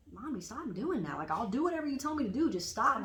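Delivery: lightly voiced whiny child, pitch swooping; retold pleading little girl. Daughter begging mom to stop copying her, mild childlike plea. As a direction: plead like an annoyed little kid.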